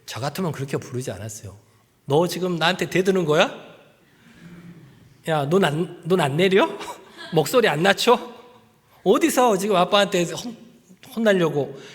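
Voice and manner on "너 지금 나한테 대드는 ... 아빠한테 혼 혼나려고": scolding father. Pretend. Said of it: "저는 아마 그렇게 했을 거예요".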